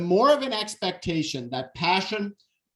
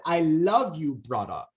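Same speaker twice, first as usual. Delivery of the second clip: tender "I love you". Retold or imitated. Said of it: "you said".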